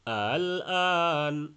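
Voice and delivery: very slow "আল আন" with the second hamza eased; softened hamza. Shown as a demonstration. Teacher demonstrating tasheel to students. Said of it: "দ্বিতীয়টাকে হালকা উচ্চারণ".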